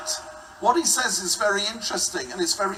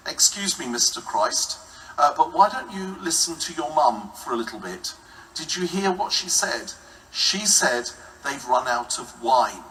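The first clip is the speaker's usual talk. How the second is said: mock protest; 5 semitones lower than usual. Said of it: "I would have said".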